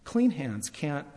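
slow, weighty delivery; spelling out the rule word by word; slow and deliberate. Acted. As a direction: lay out each word slowly. Preacher slowly spells out the rule.

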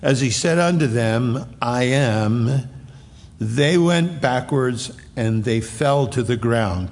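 slow, measured reading of the verse; scripture reading. Acted. Preacher reading the verse aloud to the congregation, slow and solemn. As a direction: lay each word of the text out deliberately.

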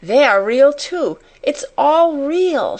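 high, loud-starting exclamation of wonder; excited, high-pitched outcry; joyful cry. A narrator's reading. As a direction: cry out in delight, drawing out the last words. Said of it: "she cried".

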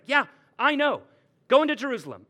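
loud, high mock-brave reply; defiant declaration. Paul answers the prophet, loud and undaunted. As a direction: proclaim it cheerfully, undeterred. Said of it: "And Paul's like".

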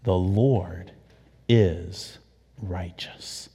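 soft, fading to a whisper; hushed reverent. Shown as a demonstration. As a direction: say it low and reverent. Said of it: "Can you say that with me?".

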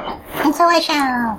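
high, very slow noble vow; solemn vow. Acted. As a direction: intone it like a knight.

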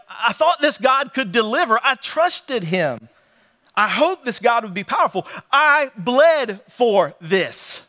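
acted, wounded protest of a let-down believer; imagined frustration, building to the last phrase. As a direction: protest the betrayal, slowing to weighty, separated words. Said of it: "Can you imagine the frustration?".

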